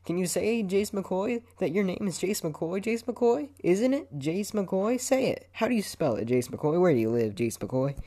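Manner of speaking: high, pushy mock undercover cop; James. Mimicking friend grilling him for his name, high mock interrogation. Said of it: "you sound like an undercover cop".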